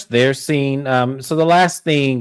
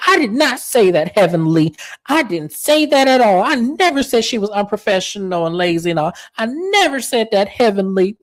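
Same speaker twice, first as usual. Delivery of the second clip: imitating Jackie's denial; 8 semitones higher than usual. Jackie denying to Heavenly she called Toya lazy, high mock protest. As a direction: squeak out an indignant denial in her voice.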